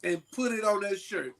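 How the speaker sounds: loud, laughing eagerness; can't wait to press it, laughing; laughing excitement. Retold or imitated. Printer owner hyped over his fresh transfer, laughing loud.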